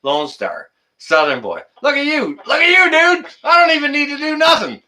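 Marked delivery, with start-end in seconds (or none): 1.8-4.8 high, thrilled cheering; excited. Real, not acted. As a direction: hype up the mods, voice jumping up. Excited streamer hyping his moderators.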